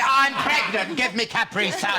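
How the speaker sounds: pushy pregnant woman. Retold or imitated. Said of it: "one of those pushy pregnant women".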